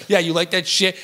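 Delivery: lightly imitated Long Island accent; New Jersey accent. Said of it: "she talked in this New Jersey, Long Island accent".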